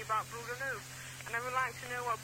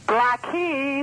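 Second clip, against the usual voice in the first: loud repeat; 2 semitones higher, 15 dB louder than usual. Real, not acted. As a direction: shout the place name louder. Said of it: "can you say that again for me".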